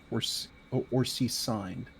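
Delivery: audio cutting out on hard S sounds; garbled broken mic signal; scrambled voice. Real, not acted. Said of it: "Your mic is cutting out".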